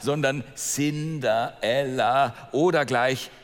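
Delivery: slow, lightly voiced sneering sister; a hint of a mocking stepsister; second stepsister. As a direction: drawl out the scorn like a spoiled girl. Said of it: "die zweite sagte".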